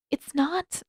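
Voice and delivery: breathless whispered start; barely voiced, shy. A narrator's reading. Katara shy, swallowing.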